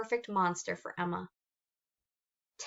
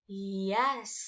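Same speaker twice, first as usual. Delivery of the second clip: hissed yes. Acted. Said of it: "he hissed".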